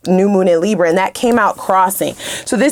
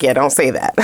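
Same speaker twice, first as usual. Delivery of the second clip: spirits' warning voice; 10 semitones lower than usual. Retold or imitated. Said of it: "they was like".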